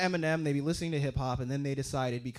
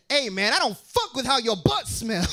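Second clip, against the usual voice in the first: sung, louder dog voice; voicing a dog; 4 semitones higher, 4 dB louder than usual. Comic voicing a dog sniffing another's butt, singsong. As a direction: give the dog a singsong tough-guy line. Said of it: "in a way that said".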